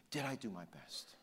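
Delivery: hushed re-enacted self-questioning; reflective question. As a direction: ask it inwardly, very quietly. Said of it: "thinking about it".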